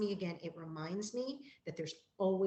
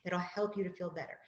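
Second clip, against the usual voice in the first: calm and gentle. Shown as a demonstration. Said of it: "I do this very calmly and gently with children".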